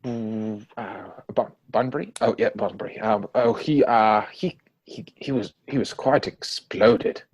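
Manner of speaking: flustered stammer. Acted. Algernon stalling over Bunbury's death.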